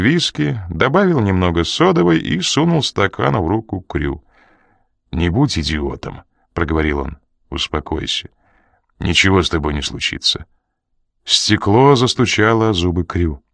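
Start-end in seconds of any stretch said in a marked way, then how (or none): 5.1-10.5 calming. Acted. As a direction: settle him down. Coridon calms Crew.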